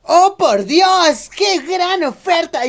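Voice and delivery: slow, high, over-the-top wonder; infomercial amazement. Pretend. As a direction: gasp at the amazing deal. Mock infomercial amazed customer. (asombro de comercial de teletienda)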